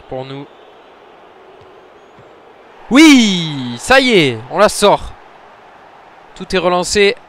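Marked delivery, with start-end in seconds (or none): 2.9-7.2 higher and louder, jubilant; relieved cheer. Real, not acted. Gamer saving a shootout penalty, jubilant cheer. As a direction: burst out with relief.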